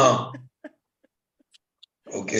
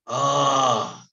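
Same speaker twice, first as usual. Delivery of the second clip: mock crying; much slower than usual. Mocking the clip's cry of Ah.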